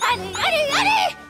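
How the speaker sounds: rising high, loud hurry-up; urging on. Acted.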